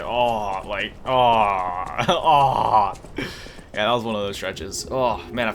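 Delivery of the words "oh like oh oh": stretch groan. Retold or imitated. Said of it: "those stretches where you just stretch".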